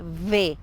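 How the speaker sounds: "V" said carefully with a clear v sound; well-pronounced V. Shown as a demonstration. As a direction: demonstrate the letter "V" distinctly. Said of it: "pronunciar bien la B".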